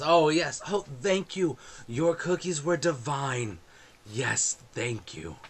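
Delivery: effusive, lilting thanks to a parishioner; lightly voiced gracious clergyman; smiling priest. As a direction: gush thanks, easing down at the end. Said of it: "yeah, smiling".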